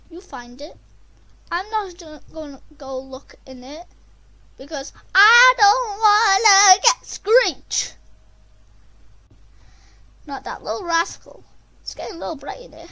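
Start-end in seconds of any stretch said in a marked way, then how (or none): 5.1-7.9 high, loud, drawn-out wail of dread; panicked cry. Real, not acted. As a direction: cry out in panic, stretching the words. Player panics about a monster.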